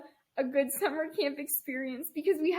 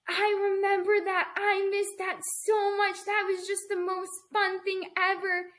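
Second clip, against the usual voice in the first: put-on higher, wistful little girl voice; nostalgic kid; 5 semitones higher than usual. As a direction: lightly voice a girl missing camp. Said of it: "was like".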